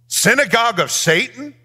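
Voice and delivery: "Synagogue of Satan?" repeated with a rising question; incredulous echo. Shown as a demonstration. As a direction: echo "Synagogue of Satan?" as if you can't believe it. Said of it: "That's a zinger".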